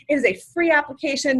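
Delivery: the word "free" clearly stressed. Shown as a demonstration. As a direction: lean into "free", the point of the sentence. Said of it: "I just wanna emphasize the word free".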